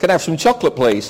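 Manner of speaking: put-on repeating a line in showy English accent; best English accent. Pastor repeating his chocolate request for admirers, best English accent. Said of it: "in my best English accent".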